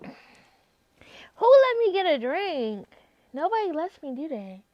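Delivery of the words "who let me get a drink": very slow whisper; tipsy whisper. Real, not acted. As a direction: whisper it like a secret. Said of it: "I'm drunk".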